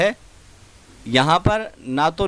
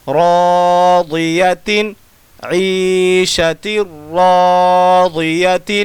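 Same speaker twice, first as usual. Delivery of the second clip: drawn-out Quran recitation, syllable by syllable; slow tajweed spelling recitation; 4 dB louder, much slower than usual. Shown as a demonstration. Teacher chanting Quran spelling to students, slow and drawn out. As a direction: spell each letter, then chant the word slowly.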